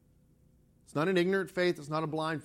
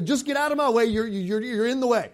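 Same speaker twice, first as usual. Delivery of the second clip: mock yell from an impatient dad, higher; retold yell; 4 semitones higher, 4 dB louder than usual. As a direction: shoo the kid away, half-shouted. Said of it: "He would yell at me".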